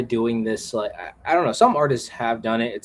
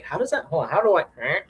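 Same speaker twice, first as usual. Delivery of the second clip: puzzled animators; 6 semitones higher, faster than usual. Retold or imitated. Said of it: "So they'll be like".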